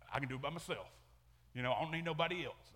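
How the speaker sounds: mock macho tough-guy voice; a hint of a macho man; manly voice. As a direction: puff up like a self-reliant man, lightly. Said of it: "That's my manly voice".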